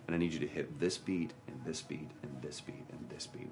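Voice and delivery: imitated director ticking off beats, fading away; retold rote instructions, trailing to very quiet; mechanical. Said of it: "makes it sound so mechanical".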